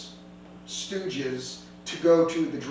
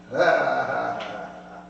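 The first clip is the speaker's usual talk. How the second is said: mocking laugh; 4 semitones lower, slower than usual. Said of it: "he goes".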